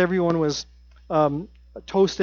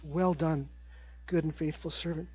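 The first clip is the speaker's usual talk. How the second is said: hushed longing; 11 dB quieter than usual. Acted. Longing for God's words.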